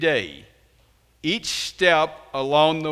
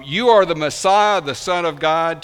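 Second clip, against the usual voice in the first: bold confession; 4 semitones higher, 7 dB louder than usual. Retold or imitated. Peter's confession recalled.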